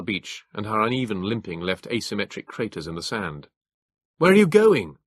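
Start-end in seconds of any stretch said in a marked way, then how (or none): 4.2-5.0 Hilary's voice. A narrator's reading. Hilary calls out, alarmed.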